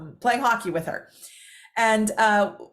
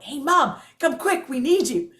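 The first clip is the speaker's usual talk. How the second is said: calling out; 4 semitones higher, 4 dB louder than usual. Retold or imitated. Calling Mom from another room.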